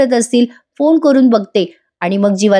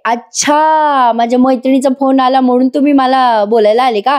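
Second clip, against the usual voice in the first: mock affronted; 3 semitones higher than usual. Kavya learns why Parth came to talk, mock affronted. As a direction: stretch the first word in mock indignation. Acted quarrel, Kavya takes offence.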